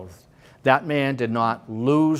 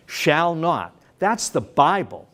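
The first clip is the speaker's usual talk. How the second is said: usual speaking voice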